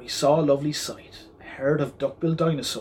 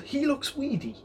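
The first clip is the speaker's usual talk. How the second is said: grumbled; 11 semitones higher, 4 dB quieter than usual. A narrator's reading. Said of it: "and she grumbled".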